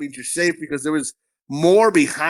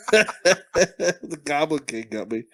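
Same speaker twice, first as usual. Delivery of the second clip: laughing; much slower than usual. Real, not acted. Said through laughter.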